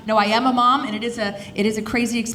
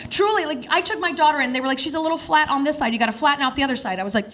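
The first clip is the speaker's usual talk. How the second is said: excited; 6 semitones higher than usual. Real, not acted. Raised excited delivery.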